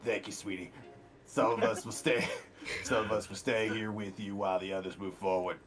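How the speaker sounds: warm. Real, not acted. Player gently comforts the NPC.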